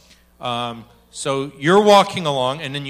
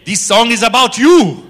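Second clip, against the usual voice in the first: laughing; 6 semitones higher, 13 dB louder than usual. Retold or imitated. Retelling God's message, laughing.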